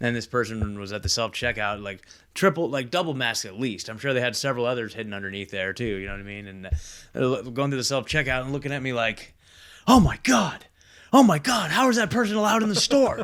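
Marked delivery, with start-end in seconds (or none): 9.9-13.2 very high, shrill, loud shrieking scream. Retelling a masked shopper reacting at the self-checkout: imitating someone screaming. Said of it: "screaming, like, like, like, making a huge scene".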